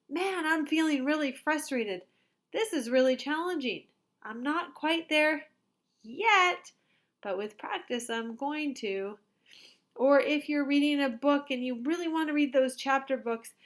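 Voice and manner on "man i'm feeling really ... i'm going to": hopeful growth mindset. Shown as a demonstration. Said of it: "you can say".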